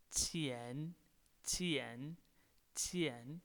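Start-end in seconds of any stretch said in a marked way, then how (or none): 2.7-3.4 钱 with a rising second tone. Shown as a demonstration. Teacher showing the Chinese word for money, 钱 in rising tone. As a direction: say 钱 with the pitch climbing through the syllable. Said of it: "a rising tone".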